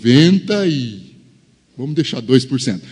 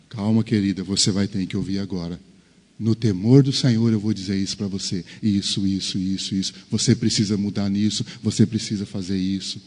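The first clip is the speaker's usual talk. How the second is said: soft, steady and calming; husband calming his upset wife before speaking, soft; calm firmness; 4 semitones lower, 5 dB quieter than usual. Acted.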